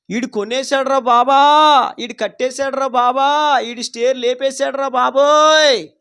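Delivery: slow, mildly hammed-up lament; mock envious wail. Envious neighbour moaning over another's purchase, mock wail. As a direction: imitate a jealous neighbour moaning, lightly. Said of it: "పక్కనోడు ఏడుతున్నాడు".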